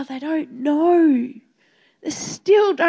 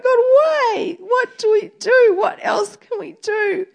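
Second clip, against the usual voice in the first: crying out to God; 3 semitones higher than usual. Retold or imitated. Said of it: "just crying out".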